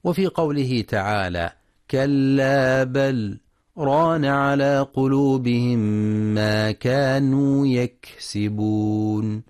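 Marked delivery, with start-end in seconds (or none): 1.9-9.4 slow, drawn-out melodic Quran recitation; tajweed recitation. Acted. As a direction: chant the verse slowly, stretching the vowels. (تلاوة مجودة بطيئة)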